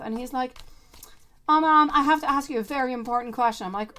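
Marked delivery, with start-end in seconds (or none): 1.5-3.7 son's earnest question. Retold or imitated. Son asks important question.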